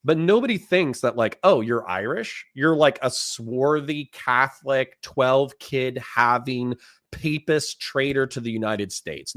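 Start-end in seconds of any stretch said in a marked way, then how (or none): 1.4-9.4 mock old-time bigot. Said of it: "Nobody talks like that anymore".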